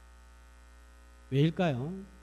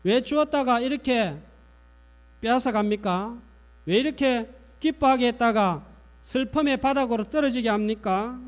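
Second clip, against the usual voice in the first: acted-out reproach, a little higher; mildly indignant, voiced questions; resentful complaint; 4 semitones higher, 4 dB louder than usual. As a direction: plead a grievance on the woman's behalf. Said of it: "원망하는 말을 합니다".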